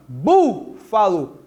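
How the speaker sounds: "Búfalo" slowed, BÚ stretched and punched; stress on BÚ. Shown as a demonstration. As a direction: hit the first syllable of "Búfalo" hard, then let fa-lo drop. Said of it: "Qual é a sílaba mais forte?". ("Búfalo" devagar, com força no "bú")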